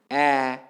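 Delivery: "a" as a long, open vowel; strong vowel. Shown as a demonstration. Lecturer showing students a strong vowel, "a" held long. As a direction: hold "a" as a full, sustained vowel. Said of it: "These vowels are stronger than".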